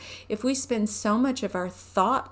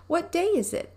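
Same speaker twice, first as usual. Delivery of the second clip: Pooh asking; 10 semitones higher than usual. Acted. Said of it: "asked Pooh".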